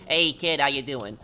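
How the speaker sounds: light Omerta mobster accent, a friendly tough-guy greeting. Shown as a demonstration. Streamer showing the Omerta gangster accent he could play, in a light mobster accent. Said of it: "I think I could do that accent".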